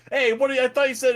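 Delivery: high, loud mock outrage; betrayed protest. Spectator yelling at fighters who broke truce, high protest.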